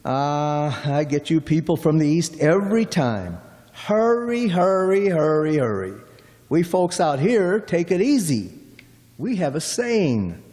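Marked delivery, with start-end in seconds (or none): 3.7-5.9 mocking mimicry. Driver mimics impatient Easterners.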